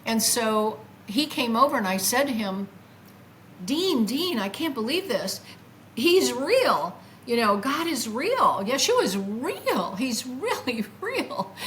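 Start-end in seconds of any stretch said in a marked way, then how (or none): 3.6-10.0 pleading with awe that God is real; excited insistence. Retold or imitated. Telling her friend Dean about meeting Jesus, excited. 10.0-11.5 slow, breaking into a laugh mid-phrase; giddy laugh on the word real; laughing in wonder. Retold or imitated. Insisting to Dean that Jesus is real, laughing.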